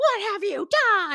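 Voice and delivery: put-on shrill, very high, loud scream. Retelling a defense opening where George screams at Casey: imitating George screaming. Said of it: "screaming at Casey".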